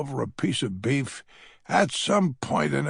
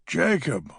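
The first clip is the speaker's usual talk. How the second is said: put-on high, louder old lady crying out in alarm; 7 semitones higher, 4 dB louder than usual. A narrator's reading. Old lady sees Jacob clutch his chest, high alarmed cry. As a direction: cry out high and slow in fright. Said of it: "cries Hazel".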